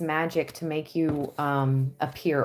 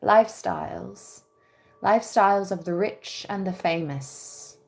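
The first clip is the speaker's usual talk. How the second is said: another British accent try. Shown as a demonstration. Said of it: "A little, uh, British accent".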